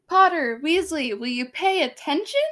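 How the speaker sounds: attempted British scolding; British accent. Shown as a demonstration. Teacher scolding Potter and Weasley, British accent. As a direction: call out in an amateur British accent. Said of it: "trying to do a British accent".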